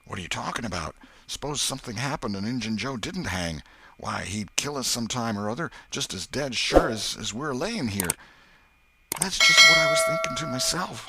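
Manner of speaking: a hint of Huck's anxious reasoning; lightly voiced scared boy. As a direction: reason it out nervously. Huck explains danger.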